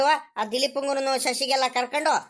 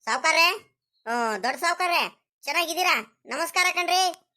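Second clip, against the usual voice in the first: put-on a lightly raised, humble old villager's voice greeting his betters; 4 semitones higher than usual. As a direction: play the deferential old village man, voice pitched up. Villager Rangajja greets the landlord.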